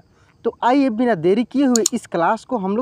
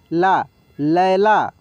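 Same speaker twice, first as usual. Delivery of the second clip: slow syllable reading; 3 semitones lower, much slower than usual. Shown as a demonstration. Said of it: "ल में आय की मात्रा लै".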